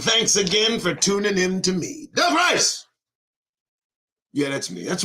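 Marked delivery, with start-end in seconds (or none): 2.1-2.9 announcer call. Acted. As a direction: belt out your own name to open the show. Announces his own name on show.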